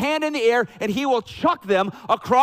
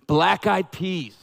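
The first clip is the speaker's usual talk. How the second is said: slow Southern drawl; Southern accent; much slower than usual. Real, not acted. Preacher listing Southern food, slow Southern accent. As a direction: let the Southern come out, slowly. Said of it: "there's my Southern's gotta come out".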